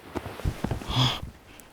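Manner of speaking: long breathy gasp; startled gasp. Acted. Monster taken aback by the woman's move, gasping. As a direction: draw in a sharp, audible breath.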